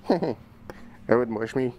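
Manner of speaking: slow, laughing through the words. Real, not acted. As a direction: giggle it out slowly. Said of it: "repeats laughing".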